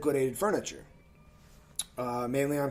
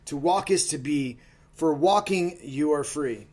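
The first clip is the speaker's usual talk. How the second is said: poem reading. Acted. Reads his own poem aloud.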